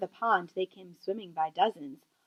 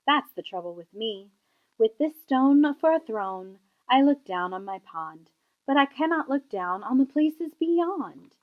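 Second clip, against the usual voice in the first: frowning king, lightly voiced. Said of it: "he said with a frown".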